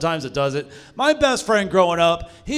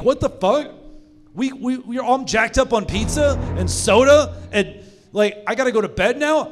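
indignant protest; 4 semitones higher than usual. Acted. Kid protests bedtime.

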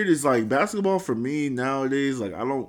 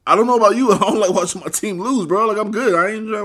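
laughing; 6 semitones higher, 6 dB louder than usual. Real, not acted. Laughing after the impression.

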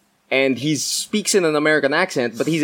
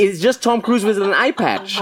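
higher, words bubbling with laughter; laughing; 7 semitones higher than usual. Real, not acted. Joking to friends about the actor's costume, laughing. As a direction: deliver the punchline while laughing. Cracking up over the miscast actor.

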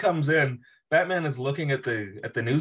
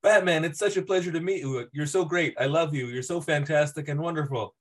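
gushing fan; 4 semitones higher than usual. Retold or imitated. Mocking fawning rich fan.

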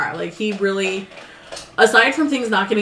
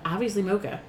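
imitating a dead-serious answer, softer; real serious; 6 dB quieter than usual. Mother-in-law answering the mocha question, real serious. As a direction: say it quietly, in earnest. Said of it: "real serious".

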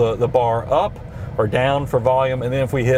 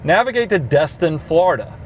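voice command; 3 semitones higher than usual. Shown as a demonstration. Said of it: "you can use the voice command".

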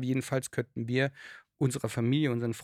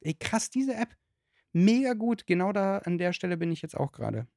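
excited; 4 semitones higher than usual. Retold or imitated. Mimicking an excited beginner.

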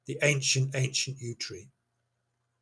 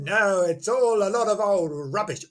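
put-on lightly scoffing, no accent; 5 semitones higher than usual. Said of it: "Obviously, he said that in Welsh".

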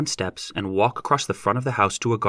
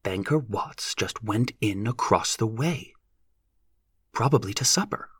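brisk; 4 dB quieter than usual. A narrator's reading. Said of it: "Mother said in her brisk way".

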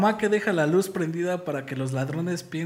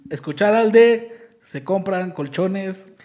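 vendor call; 3 semitones higher, 6 dB louder, slower than usual. Retold or imitated. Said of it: "Pues cántalo".

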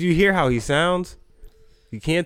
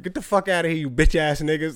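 mock aggressive yell; 3 semitones higher, faster than usual. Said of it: "I wish I could just, like".

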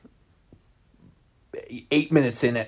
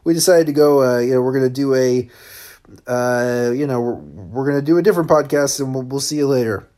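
breeze past the awkwardness; breezy brush-off; 3 dB louder than usual. Retold or imitated. Hosts casually blow Luke off, hammed-up breezy. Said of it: "They'll go".

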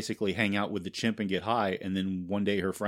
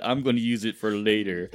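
lightly sinister mustache twirling villain; a hint of a scheming villain; cartoon villain; 3 dB louder than usual. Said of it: "You just sounded like a cartoon villain".

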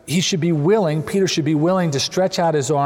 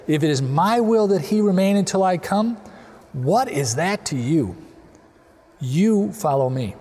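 stern rebuke; 2 semitones higher than usual. Retold or imitated. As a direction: deliver a restrained, firm rebuke. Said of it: "as a harsh rebuke".

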